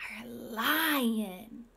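hushed whispered reveal; whispering. Acted. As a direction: whisper the name dramatically.

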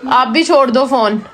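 normal talking voice

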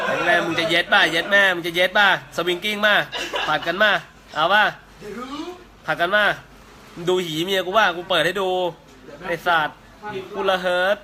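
loud, goading jeers; crude taunting. Real, not acted. Taunting rival on live stream. (เยาะเย้ยยั่วยุเสียงดัง)

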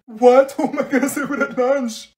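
high, loud panicked protest; distressed outburst. Real, not acted. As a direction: panic about sitting alone. Dismayed friend leaving.

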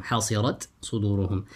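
حصرت with a distinct final ت before صدورهم; izhar. Shown as a demonstration. Teacher repeats the correct reading for students, izhar. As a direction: sound the ت of حصرت, then a separate ص. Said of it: "rather recite with الإظهار".

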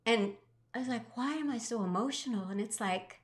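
reliving a moving lesson, voice catching with emotion; choked up. Real, not acted. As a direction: hold back real tears as you tell it. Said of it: "you can see the emotion that takes over".

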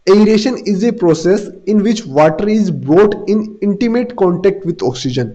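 very slow, word by word, for students to write; first very slow read of the definition; slow dictation. Shown as a demonstration. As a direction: dictate the definition slowly and clearly. Teacher dictates definition of aeration.

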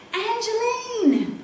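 high, slow call from far off; distant call. Acted. Edgar searching the forest, calling out for Angeline from afar. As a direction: call her name across the dark forest.

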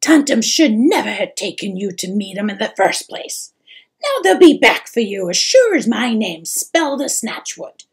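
fast, loud worried scolding; fretful troll mother. Acted.

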